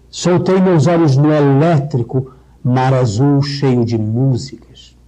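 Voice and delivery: slow reading that opens on "pedra"; open recitation. Shown as a demonstration. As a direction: read slowly and let the E vowels open out. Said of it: "Pedra, que aí abre". (recitação lenta e aberta)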